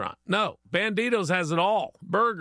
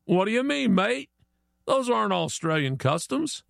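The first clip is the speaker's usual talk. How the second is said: higher-pitched, disbelieving Aussie mate; puzzled Aussie; 5 semitones higher than usual. Acted. Australian disputes the Chinese man's claim, mock puzzled. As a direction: protest as a baffled Aussie, voice lifted. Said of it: "And the Australian goes".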